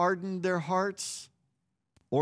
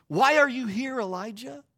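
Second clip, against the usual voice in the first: booming God voice; 5 semitones higher than usual. Retold or imitated. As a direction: call out to him with a big voice. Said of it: "and this time in that still small voice".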